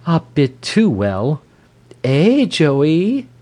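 high, knowing jibe; high-pitched exclamation lifting at the end; crying out. A narrator's reading. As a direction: cry it out, appealing to a pet. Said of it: "cried the wife".

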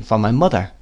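plain reading voice

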